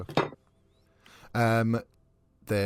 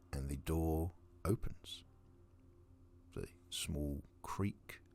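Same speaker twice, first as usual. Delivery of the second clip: whispering; 9 dB quieter, slower than usual. Acted. Eerie door opening.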